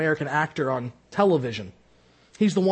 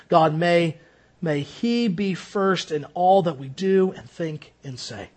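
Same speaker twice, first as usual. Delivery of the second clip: prayer. Acted. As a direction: pray humbly for the congregation. Closing prayer.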